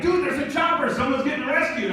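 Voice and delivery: high-pitched, excited buddy; mock excitement. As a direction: imitate a friend bursting with news. Friend runs back with news.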